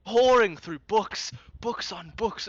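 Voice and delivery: high, drawn-out manic gushing; wired, stretched-out delight; manic excitement. Acted. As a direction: rave like a sleepless enthusiast. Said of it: "he's in this manic state".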